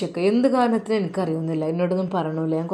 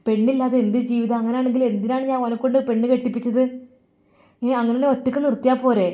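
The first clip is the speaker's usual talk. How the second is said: exasperated scolding; 5 semitones higher, faster than usual. Acted. Mother scolds daughter-in-law.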